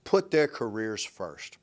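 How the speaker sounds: slow, whispered sarcasm; sarcastic whisper. Real, not acted. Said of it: "I say this with sarcasm".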